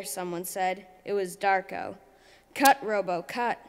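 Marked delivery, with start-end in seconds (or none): 2.5-3.6 yelling. Acted. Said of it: "yelled Chicken".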